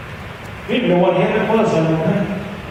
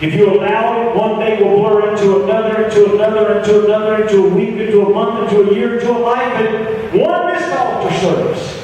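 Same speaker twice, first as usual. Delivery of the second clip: building preaching; 2 semitones higher than usual. Real, not acted. Preacher warning how days blur into a life, building urgently. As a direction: roll each phrase into the next, building.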